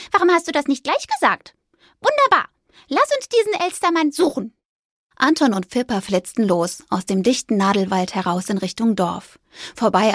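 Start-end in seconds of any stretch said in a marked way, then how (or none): 0.1-4.5 high, leaping Wunderbar; thrilled mouse. A narrator's reading. Mouse thrilled by the ghost's plan. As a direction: burst with delight. Fipper delighted.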